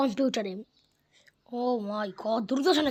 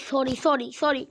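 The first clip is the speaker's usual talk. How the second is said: sorry; 5 dB louder, slower than usual. Real, not acted. Apologizes to the game.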